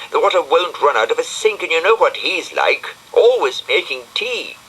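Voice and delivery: a fussy little snail explaining, unhurried; Brian the snail. Acted.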